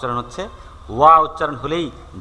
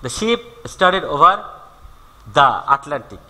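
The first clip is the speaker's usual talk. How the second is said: slow, deliberate reading of the example; 3 dB louder, much slower than usual. Shown as a demonstration. Teacher reading an example to students, slowly. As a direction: spell it out slowly for the class. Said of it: "teacher reads example slowly".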